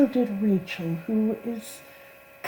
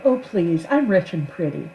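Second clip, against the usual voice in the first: haughty line read. Retold or imitated. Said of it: "I did record".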